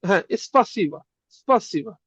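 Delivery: "স্পাসিবা" said clearly as spa-see-ba, stress on the middle; slow pronunciation demo. Shown as a demonstration. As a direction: model "স্পাসিবা" slowly for the class. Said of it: "এটা উচ্চারণ হবে". (স্পাসিবা উচ্চারণ করে দেখানো)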